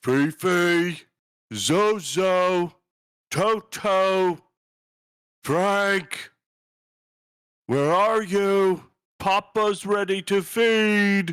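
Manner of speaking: loud, high, booming, bellowing voice. Game master voices a figure calling out from a distance, loud booming voice. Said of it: "this loud booming voice".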